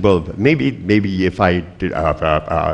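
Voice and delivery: slow, faltering backpedal; hesitant stammer. Retold or imitated. Patient backing out of dying, mock nervous stammer. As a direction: stumble over it, sinking into uhs.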